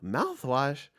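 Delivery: disbelieving rising "Mouthwash?"; incredulous echo. Retold or imitated. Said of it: "And I'm like".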